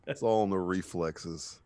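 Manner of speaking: slow, lazy tough-guy voice; lightly voiced action hero, very slow; Jack Burton. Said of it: "Jack Burton would have".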